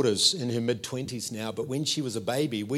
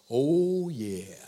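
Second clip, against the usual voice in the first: heartfelt agreement. Acted. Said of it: "your heart goes".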